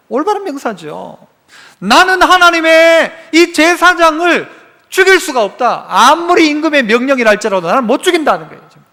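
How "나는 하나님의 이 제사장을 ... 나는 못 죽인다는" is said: firm refusal. Retold or imitated. Soldiers refusing King Saul's command to kill priests, firm and defiant. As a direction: plant your feet and refuse the order.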